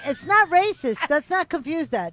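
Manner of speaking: insistent protest. Real, not acted. Speaker rejecting the racist label, loudly insistent. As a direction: cut in loudly to defend yourself.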